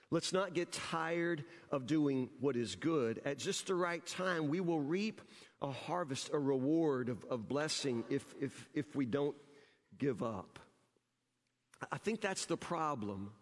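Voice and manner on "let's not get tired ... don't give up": slow, deliberate verse reading; slow scripture reading. Shown as a demonstration. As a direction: pastor rereading Paul's verse to his church, slow and deliberate. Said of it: "Notice what he says".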